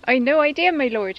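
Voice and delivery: lightly voiced carpenter; a hint of the baffled tradesman; carpenter character. Carpenter answering his lord, lightly put-on character voice. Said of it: "you be Bert".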